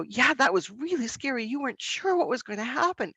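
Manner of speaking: steadier, gentler acknowledgment; name the fear without amplifying it; moderate, soothing reflection; calmer reflection. Shown as a demonstration. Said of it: "so we go".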